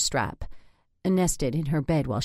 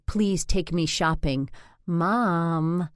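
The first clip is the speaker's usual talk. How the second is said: pleading; 2 semitones higher, much slower than usual. Shown as a demonstration. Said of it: "has a pleading quality".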